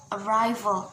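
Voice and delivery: "arrival" with a strong RI; "arrival" said as a-RI-val; second-syllable stress. Shown as a demonstration. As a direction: punch the middle of "arrival". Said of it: "is in the second syllable".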